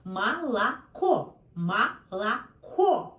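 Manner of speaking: Молоко with the first two O clearly said as A, malaKO; Молоко as malaKO, the unstressed O turned to A. Shown as a demonstration. Teacher models the O-to-A reduction for learners. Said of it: "sounds like A, no O".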